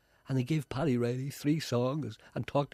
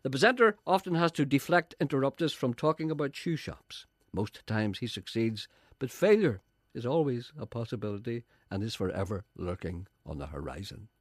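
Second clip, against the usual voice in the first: mock narration; 3 semitones higher than usual. Mock third-person presenter narration.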